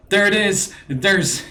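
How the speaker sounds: high, loud mob cry; angry seals. Acted. Game master voicing subtitled seals coming over, high angry shouts. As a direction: shout accusingly as an angry seal. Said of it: "the seals angrily start coming over".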